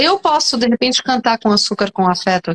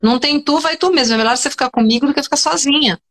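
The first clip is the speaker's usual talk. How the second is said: mock paraphrase; faster than usual. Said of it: "ele tava falando assim".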